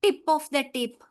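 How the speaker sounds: "tip of the tip" stretched out slowly; slow emphasis. Shown as a demonstration. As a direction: spell it out slowly for students. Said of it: "اس کو ہم بولیں گے".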